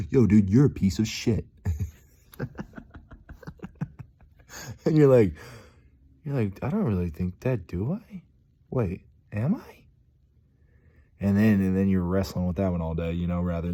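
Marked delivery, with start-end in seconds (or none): 0.1-1.4 loud teasing self-talk; mock self-insult. Mocking self in the mirror. 6.6-9.8 rising, unsure inner voice; suddenly doubt yourself; higher wavering second-guessing; doubtful self-questioning. Retold or imitated.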